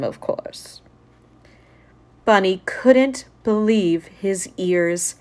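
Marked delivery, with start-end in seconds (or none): 0.0-0.8 whispering. Acted. Librarian's playful aside.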